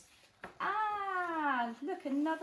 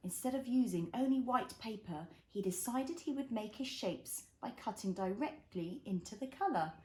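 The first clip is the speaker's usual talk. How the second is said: put-on reading to a toddler; 2 semitones lower than usual. A narrator's reading. Reads picture book to child.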